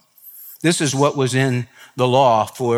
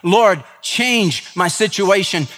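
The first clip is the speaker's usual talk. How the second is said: crying out to God; 5 semitones higher than usual. Retold or imitated. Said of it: "cry out and say".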